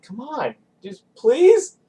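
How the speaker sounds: high pleading please; whiny begging. Retold or imitated. Begging friends to stay out, high and whiny. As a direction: beg your friends like a kid. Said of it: "And I was like".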